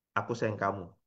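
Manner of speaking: low, soft and sour-faced; grumpy pout with no tenderness in it; sullen, scowling. Shown as a demonstration. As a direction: say it through a scowl. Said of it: "Coba Anda merenggut mukanya".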